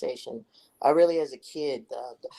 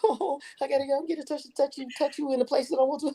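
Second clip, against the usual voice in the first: mock suggestive voice; 12 semitones higher than usual. Joking suggestive voice.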